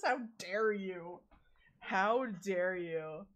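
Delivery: slow, drawn-out playful scolding; mock indignation. Scolding whoever fries mimosas, mock indignation. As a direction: scold slowly with hammed-up offence.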